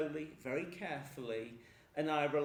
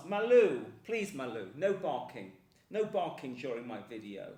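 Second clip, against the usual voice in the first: sharp, louder call to the dog; scolding the dog; 4 semitones lower, 6 dB louder than usual. Real, not acted. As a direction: tell the barking dog off firmly. Telling barking dog off.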